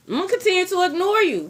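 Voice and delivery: quick high sass, defiant. Acted.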